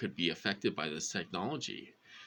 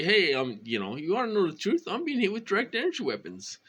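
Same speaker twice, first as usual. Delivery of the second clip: hypothetical confession; 10 semitones higher, 4 dB louder, faster than usual. Pretend. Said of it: "You can't say".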